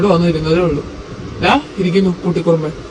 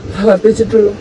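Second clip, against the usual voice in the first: hurt outburst. Acted. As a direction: pour out the hurt, almost shouting. Hurt husband pours out his anger.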